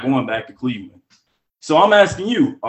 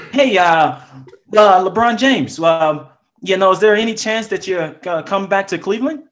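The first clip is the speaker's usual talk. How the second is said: reporter voice; 3 semitones higher than usual. Pretend. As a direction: play the eager sports reporter. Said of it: "ask the question in your reporter voice".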